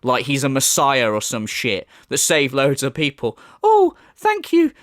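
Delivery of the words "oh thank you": mock fan gushing in a much higher voice; gushing grateful fan. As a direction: squeal thanks like a rescued fan in a mock fantasy. Grateful people in alternate reality.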